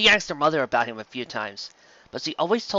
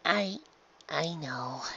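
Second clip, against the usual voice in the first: softly; 4 semitones higher, 7 dB quieter, much slower than usual. A narrator's reading. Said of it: "she said softly".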